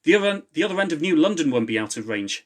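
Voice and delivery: shout. A narrator's reading. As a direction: call it out while running. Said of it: "shouted Ewan".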